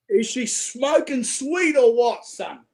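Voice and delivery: slow, drawn-out Aussie question; broad Aussie accent. Shown as a demonstration. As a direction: stretch it out in a thick Australian accent. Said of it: "This is how I talk when I go home".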